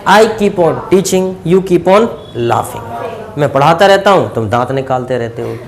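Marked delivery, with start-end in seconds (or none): 0.1-2.8 very slow, word by word; measured classroom dictation pace. Shown as a demonstration. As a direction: read it out slowly for the class to copy. Teacher dictates English model sentence.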